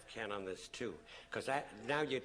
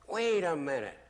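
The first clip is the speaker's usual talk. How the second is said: sudden realisation; 8 semitones higher, 12 dB louder than usual. Retold or imitated. C P realising he's used.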